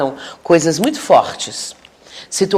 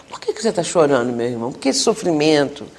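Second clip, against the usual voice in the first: softer, caring questions, fading; gentle questioning; 2 semitones lower, 5 dB quieter than usual. Shown as a demonstration. Counselor softly asking a crying spirit what happened, tender. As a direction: ask kindly, drawing the story out. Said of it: "mas também saber o porquê".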